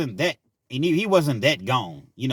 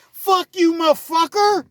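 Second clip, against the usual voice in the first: high, loud mock white-guy yelling; shrill hammed-up white boy rage; white boys cussing; 10 dB louder, slower than usual. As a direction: scream it like a furious white dude. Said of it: "when the white boys say".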